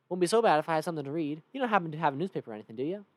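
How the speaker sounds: quick, loud Southern cowpoke; Cactus Bill. Acted. Cactus man asks for a newspaper, quick Southern voice. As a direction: ask fast in a Southern accent. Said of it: "Cactus Bill".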